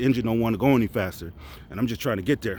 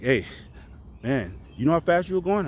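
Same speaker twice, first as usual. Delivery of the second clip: higher, stern cop voice; cop questioning; 4 semitones higher than usual. Retold or imitated. Officer asks a speeding soldier, stern. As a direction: play the officer who stopped you. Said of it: "he was like".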